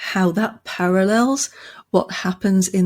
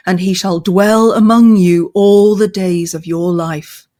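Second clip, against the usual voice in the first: a touch louder, slow, ringing proclamation; lightly proclaimed herald's call; 4 dB louder than usual. Acted. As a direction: announce the victory to the city. Eagle proclaims victory.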